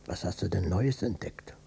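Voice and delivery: whispered, suspicious question; hushed and uneasy; wary whisper. Acted. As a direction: ask under your breath, dreading the answer. Wary father asks son.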